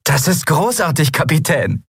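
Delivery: high, eager praise; delighted admiration. Acted. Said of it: "Mikos Augen strahlten".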